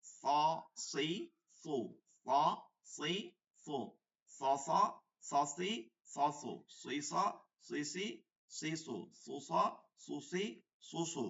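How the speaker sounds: স said thick and full-mouthed with a hiss; heavy স. Shown as a demonstration. Teacher drilling the thick letter, heavy hissing স. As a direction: make every স heavy, Arabic emphatic. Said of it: "সৎটা মোটা করতে হবে".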